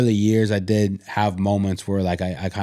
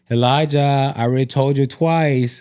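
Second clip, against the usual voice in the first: raised, mildly exasperated parent voice; patience wearing out; 4 semitones higher than usual. Retold or imitated. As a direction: imitate a parent asking for the third time. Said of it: "Our patience starts to wear".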